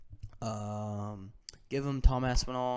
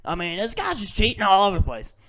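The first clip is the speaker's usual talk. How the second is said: higher, put-on voice of a fuming commentator; livid commentator; 7 semitones higher, 4 dB louder than usual. Commentator fuming at the cheating fighter, imitated anger. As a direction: imitate the commentator losing his temper. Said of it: "D C was livid".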